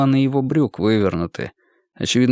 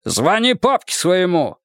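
slow, higher barked order; harsh barking commands; 6 semitones higher, slower than usual. Acted. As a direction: bark the order at her. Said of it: "рявкнул на неё". (рявкающий командный тон)

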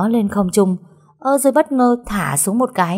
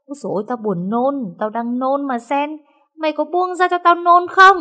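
nauseous, desperate; 8 semitones higher, 3 dB louder than usual. Acted. Nauseous master begging release.

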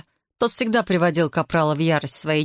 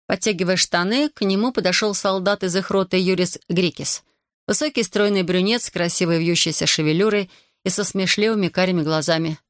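ordinary delivery, nothing marked

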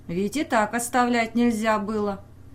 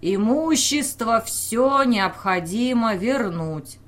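slow, louder order full of anger; angry order; 2 semitones higher, 4 dB louder, slower than usual. Acted. Official ordering the crowd over the noise, slow and angry. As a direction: lay down the command with rage. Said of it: "полный гнева, распорядился".

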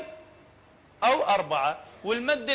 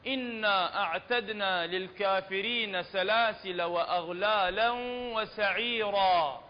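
Quran recitation; slower than usual. Shown as a demonstration. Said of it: "recites verse for class".

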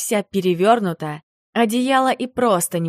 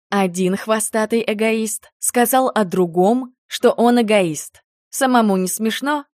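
mocking; 3 semitones higher than usual. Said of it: "насмешливо уточнила я".

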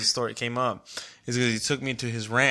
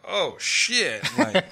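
amused realization, higher and laughing; laughing oh shit; 8 semitones higher, 5 dB louder, much slower than usual. Retold or imitated. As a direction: laugh it out in surprise. Realizing his brother's voice changed.

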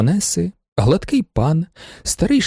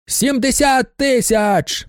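high, slow, drawn-out bidding yell; shouting at the top of his lungs; 10 semitones higher, much slower than usual. A narrator's reading. Man in blue glasses outbids everyone, shouting at the top of his lungs. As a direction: belt the bid out high to win. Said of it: "на все горло кричить".

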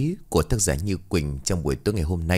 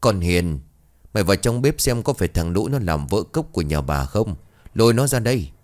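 lightly voiced stern mistress; stern, through gritted teeth. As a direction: bite each word a little. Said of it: "gằn giọng".

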